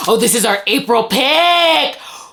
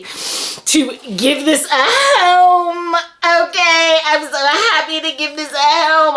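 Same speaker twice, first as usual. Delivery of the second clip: tag; 4 semitones higher than usual. Real, not acted. Gushes over adopting the book.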